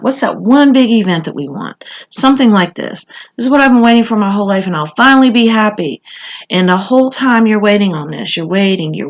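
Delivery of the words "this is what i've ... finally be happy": mock excited gush. Imagined overjoyed inner voice.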